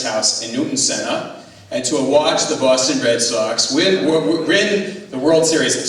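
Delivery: lightly hammed-up Boston accent, stumbling over words; bad Boston accent. Shown as a demonstration. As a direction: try a clumsy Boston accent. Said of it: "my bad Boston accent impression".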